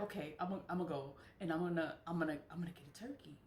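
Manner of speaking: rushing eager words, fast; babbling, hurried and eager; fast eager self-quote. Retold or imitated. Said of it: "So I was like".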